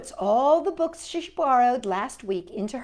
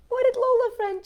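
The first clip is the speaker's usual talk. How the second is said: excited question; 6 dB louder, faster than usual. Real, not acted. Reading to children, excited.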